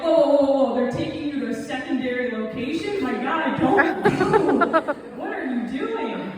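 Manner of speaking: mock panic, high and loud with a nervous laugh; rising alarm, loud and high; panicked. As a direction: freak out on the phone, voice jumping up. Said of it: "I immediately was like".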